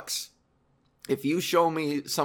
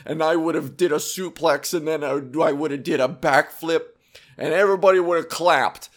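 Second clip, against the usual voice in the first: mocking online commenter; 3 dB louder than usual. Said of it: "these comments underneath that are always like".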